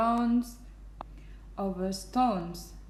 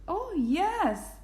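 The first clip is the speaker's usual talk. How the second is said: high little piping voice; 10 semitones higher than usual. A narrator's reading. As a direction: pipe up high. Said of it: "piped the voice".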